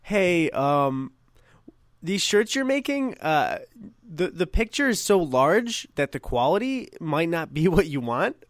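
tactful question with suppressed amusement; trying not to laugh. Retold or imitated. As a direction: imitate a nice rep stifling giggles, voice lifting at phrase ends. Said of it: "she was clearly trying not to laugh".

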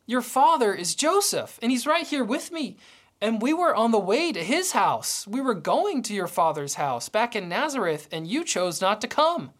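pointed, mildly indignant retort; retorting mother. Retold or imitated. Mary retorting to her son, mildly indignant. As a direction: set him straight, a touch hurt. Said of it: "she could have easily retorted".

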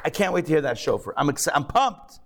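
mock-thrilled, bubbling over; eager servant. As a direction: play the servant who can't wait to start. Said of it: "There's one that's super excited".

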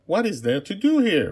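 put-on high, light young princess. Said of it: "Princess Marianne asked".

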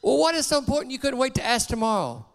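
a lightly voiced annoyed father; father impatient with his son's question; irritated father. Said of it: "And Dad asks".

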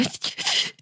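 soft, voiceless mock sobs; imitated crying. Shown as a demonstration. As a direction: demonstrate a breaking-down cry, quietly. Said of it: "like, that kind of cry".

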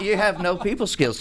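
laughing while repeating the jab. Retold or imitated. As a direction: giggle through the line. Repeating the teasing line, laughing.

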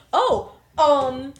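high, loud, drawn-out hesitant reply; awkward admission. Acted. Vivian admitting she likes Rick, acted awkward hesitation. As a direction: act out an awkward confession, stretching the words. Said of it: "a really awkward pause".

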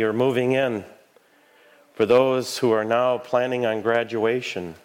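measured, reverent prayer voice. Real, not acted. Leads intercessory prayers.

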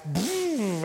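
high swooping "boom" for a car; engine zoom. Retold or imitated. Pastor retelling hitting the gas, zooming sound effect. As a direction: whoosh it up high, then down. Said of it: "I hit the gas".

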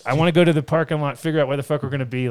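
so excited. Real, not acted. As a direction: rush through it with excitement. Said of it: "I am so excited".

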